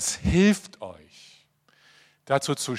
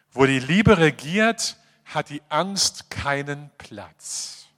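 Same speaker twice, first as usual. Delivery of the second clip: solemn reading; slower than usual. Shown as a demonstration. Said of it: "Jetzt kommen wir wieder zu diesem Satz".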